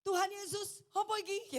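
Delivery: high, loud outcry to Jesus; alarmed cry. Retold or imitated. Wife retelling her cry as the car hits, alarmed. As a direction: cry out as the crash comes.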